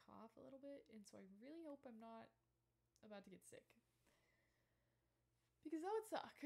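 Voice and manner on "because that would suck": whispering. Real, not acted. Joking about getting sick.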